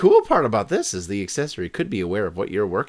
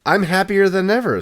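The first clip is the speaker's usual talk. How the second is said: dog voice; 9 semitones higher, 4 dB louder than usual. Acted. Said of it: "says the dog".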